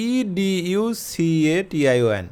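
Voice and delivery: letters of "ইডিইউসিএটিআইওএন" spelt out very slowly, one by one; spelling out education slowly for the class. Shown as a demonstration. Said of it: "আবারও বলি".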